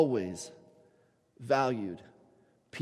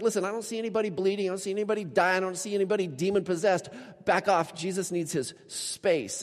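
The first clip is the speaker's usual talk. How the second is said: dismissive disciples; 4 semitones higher than usual. Retold or imitated. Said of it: "the disciples are like".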